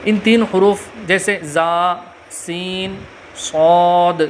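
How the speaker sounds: "زا، سین، صاد" with a sharp hissing s, slow; whistling letters. Shown as a demonstration. Teacher demonstrating the whistling letters, hissed. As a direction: let the "سین" whistle through the teeth. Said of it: "سیٹی کی طرح تیز آواز نکلتی ہے".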